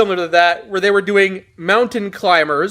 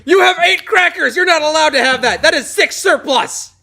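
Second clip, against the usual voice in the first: high barked drill sergeant shout; mock drill sergeant yell; 10 semitones higher than usual. Drill sergeant yelling mock quote.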